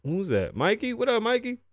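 high excited shout-out to Mikey; calling out. Real, not acted.

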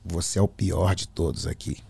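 low, measured menace; deep, sinister accusation; changed, possessed voice. Retold or imitated. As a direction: imitate a possessed friend speaking deep. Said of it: "com a voz assim".

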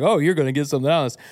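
fast, mock-sceptical echo of his own line; self-mocking quote. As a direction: rattle it off as if teasing yourself. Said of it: "I know that sounds crazy to say".

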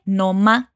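"No más" with the final S dropped; Peruvian reduced pronunciation. Shown as a demonstration. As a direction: run "No más" together as "nomá". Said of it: "una reducción de pronunciación nativa de Perú".

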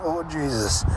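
a tense strained "Oh, Jesus" through gritted teeth. Retold or imitated. Cyclist as lorries hammer by, strained gritted-teeth groan. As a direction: mutter it through clenched teeth as lorries pass. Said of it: "I'd be gritting the teeth going".

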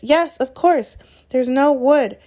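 high, loud and flustered; frantic cry. A narrator's reading. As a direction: cry out in a flap. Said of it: "Hermione cried".

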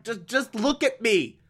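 lightly acted despairing prisoner; desperate pleading. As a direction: plead with a man who won't look at you. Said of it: "he just loses it".

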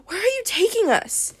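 high-pitched, insistent demand. A narrator's reading. Bianca to her kidnapper, high and demanding. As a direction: demand it in a high, girlish character voice. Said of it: "Bianca demanded".

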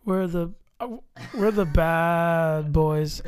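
drawn out slowly; slow dramatic delivery. Shown as a demonstration. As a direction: say it slowly for effect. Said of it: "So you would say".

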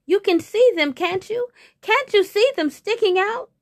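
high, insistent tiger's plea; pleading hungry tiger. Acted. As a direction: press the rabbit with a high, urgent question. Tiger begs rabbit for food.

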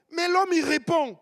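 loud, high, shouted preaching; full-force preaching. Acted. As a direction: thunder it out to the whole congregation.

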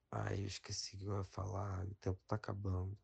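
losing the thread, going quiet; trailing off. Real, not acted. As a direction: voice fading to a mumble. Forgets what he was saying.

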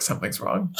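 giggling through the words; half-laughing it out. Retold or imitated. Telling a friend, laughing through it.

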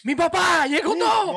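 high, bursting with relief; joyful shout. Pretend. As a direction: shout the good news. Acts out girlfriend's relief.

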